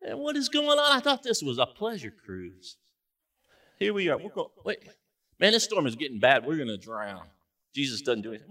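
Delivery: growing alarm as the storm builds; a hint of panicky disciples; rising worry. Disciples getting worried in storm.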